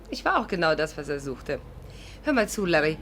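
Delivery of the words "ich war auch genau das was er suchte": dry sarcastic repeat, dropping low; sarcastic echo. Acted. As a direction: turn his words back on him. Sarkastisch wiederholt. (trocken sarkastisch wiederholt)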